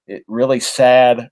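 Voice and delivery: talking through a yawn. Real, not acted. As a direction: yawn while saying it. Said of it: "excuse me, I'm yawning".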